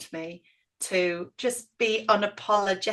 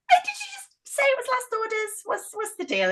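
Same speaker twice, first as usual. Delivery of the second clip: retold pleading; 12 semitones higher, 3 dB quieter than usual. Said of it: "I was like".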